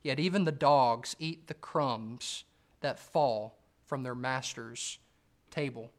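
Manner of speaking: slow, deliberate, weighing each word; slow emphatic reread. Shown as a demonstration. Preacher rereading the woman's reply for emphasis, slow. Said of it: "this is what she says in verse twenty-seven".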